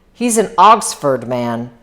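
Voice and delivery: put-on slow, odd "Oggsford" accent; weird accent. Wolfsheim describes Gatsby to Nick, in a weird accent. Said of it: "so he pronounces it in a weird accent".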